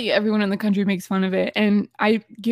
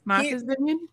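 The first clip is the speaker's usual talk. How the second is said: Boston accent; 3 semitones higher, 5 dB quieter than usual. Shown as a demonstration. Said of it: "I don't really hear it".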